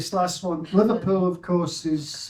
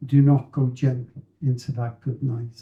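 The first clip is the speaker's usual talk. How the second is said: pointed recital. Acted. Speaker sends a poem line to Jeremy as pointed recital. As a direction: recite it as a message aimed at Jeremy. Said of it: "subliminal message from me to Jeremy".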